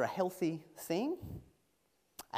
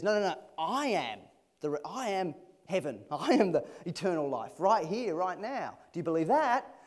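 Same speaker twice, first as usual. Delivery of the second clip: excited insistence; 3 semitones higher, 6 dB louder than usual. Acted. Jesus voiced with laughing insistence.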